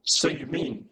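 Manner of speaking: high, slow, snarky second voice; snide alter ego. Acted. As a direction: needle him from the side.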